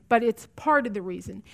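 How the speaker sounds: "part" leaned on firmly; stress on part. Real, not acted. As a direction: underline the word "part". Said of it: "I emphasize the word part".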